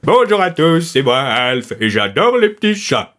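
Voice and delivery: Alf voice. Retold or imitated. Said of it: "faire la voix de Alf".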